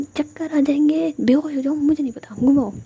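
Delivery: put-on high, loud, childlike pestering; stubborn insistence. A narrator's reading. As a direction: whine loudly to get your way. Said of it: "फिर ऐसे जिद कर रही होती है".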